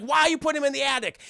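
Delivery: high, fast mock protest; quick hammed-up challenge; indignant questioning. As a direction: imitate an upset wife. Wife challenges husband.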